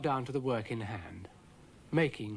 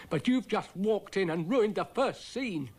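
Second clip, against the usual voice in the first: Dougal's voice; 8 semitones higher than usual. A narrator's reading. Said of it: "said Dougal patiently".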